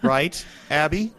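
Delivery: slow, pressing question, pitch up; insistent. Acted. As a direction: press her for the answer. Pressing Abby for an answer.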